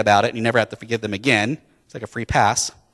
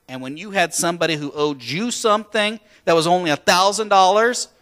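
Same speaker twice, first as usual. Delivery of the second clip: incredulous anger; 6 semitones higher than usual. Acted. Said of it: "with the anger of the debt collector".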